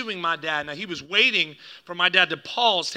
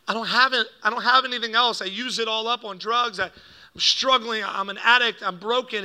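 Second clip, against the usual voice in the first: louder, higher, pleading outburst; retold desperate confession; 5 semitones higher, 4 dB louder than usual. Dad empties his pockets before the pastor, mildly desperate. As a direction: confess it all with rising urgency. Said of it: "who I'd never heard cry".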